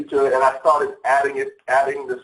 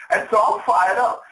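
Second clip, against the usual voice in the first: fired up; 7 semitones higher than usual. Real, not acted. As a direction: hype the crowd up. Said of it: "I hope you guys can hear the excitement in my voice".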